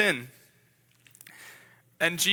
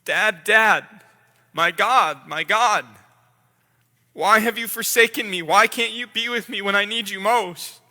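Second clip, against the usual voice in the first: louder anguished cry to his father; 4 dB louder than usual. Acted. Jesus on the cross crying to God, louder anguished cry. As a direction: call out, louder, abandoned and desperate. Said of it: "and you cry out".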